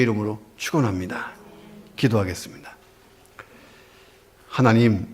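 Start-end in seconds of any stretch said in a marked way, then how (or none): 4.5-5.1 pastor praying aloud over music, rising in fervor; fervent prayer. Acted. Pastor leads the congregation in prayer, fervent prayer. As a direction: build from hushed prayer into full-voiced pleading.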